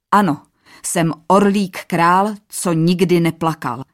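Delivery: defiant royal shout; proud cry. Acted. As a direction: bold shout to Death's face. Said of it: "vykřikl panovník".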